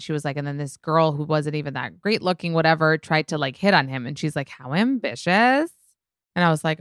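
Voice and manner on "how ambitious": high, drawn-out mock offence; mimicked indignation. Friend reacting to a girl hitting on her boyfriend, mock indignant. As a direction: imitate an offended friend, stretching the words.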